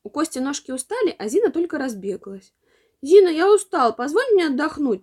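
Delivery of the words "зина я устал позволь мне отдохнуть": put-on a small boy's tired plea, pitched up; little brother asking to stop; pleading little boy. A narrator's reading. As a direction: beg to rest like a worn-out child. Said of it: "просит мальчик".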